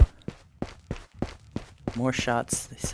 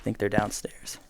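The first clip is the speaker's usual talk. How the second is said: breathy whisper, enemies close; whispering while hiding; slower than usual. Real, not acted. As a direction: whisper it, keep hidden. Hiding, enemies just below.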